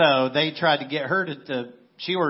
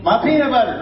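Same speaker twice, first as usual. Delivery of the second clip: higher, louder ad-style line; quoting the commercial; 8 semitones higher, 10 dB louder than usual. Retold or imitated. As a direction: belt it like a TV jingle. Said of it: "this phrase became huge".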